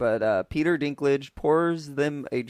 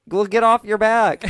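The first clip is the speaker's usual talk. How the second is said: higher, louder nagging tone; matter-of-fact scolding; bossy advice; 8 semitones higher, 9 dB louder than usual. Retold or imitated. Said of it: "she goes".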